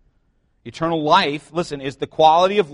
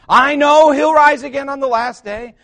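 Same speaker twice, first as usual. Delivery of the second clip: higher, louder voiced sister answering Jesus; a touch of Martha; 10 semitones higher, 11 dB louder than usual. Martha answering Jesus about her dead brother, lightly voiced higher.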